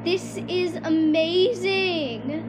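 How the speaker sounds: slow, drawn-out amazement; freaking out. Real, not acted. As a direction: stretch the words out in excitement. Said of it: "I am freaking out".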